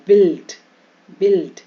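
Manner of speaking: बिल्ड with a quick "i", no "u"; short i vowel. Shown as a demonstration. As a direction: say बिल्ड firmly as "bild". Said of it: "यू ई का ई का उच्चारण".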